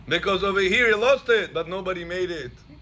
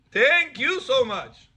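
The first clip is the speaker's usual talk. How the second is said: slow, higher, drawn-out thank you; grateful thanks; 6 semitones higher, 4 dB louder, much slower than usual. Retold or imitated. Man blessing the rabbi for the find, slow higher gratitude. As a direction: lay the gratitude on thick. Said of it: "says the Pele Yoetz".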